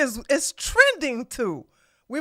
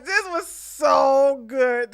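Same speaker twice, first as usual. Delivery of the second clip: drawn-out delighted line; slow amused; much slower than usual. Real, not acted. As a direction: savor it slowly. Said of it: "I'm sorry, guys".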